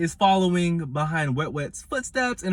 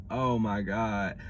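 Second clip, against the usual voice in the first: mock petty whine; 5 semitones lower, 5 dB quieter than usual. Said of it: "It's giving".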